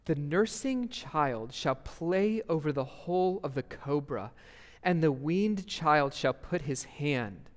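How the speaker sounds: measured, deliberate reading of Scripture; unhurried reading with space between the images; slow scripture reading. Acted. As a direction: read the text aloud slowly so they picture it. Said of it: "let's read this slowly".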